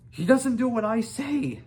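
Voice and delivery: high, loud protest; boy shouting back to father; helpless shout. A narrator's reading. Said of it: "said Hiccup".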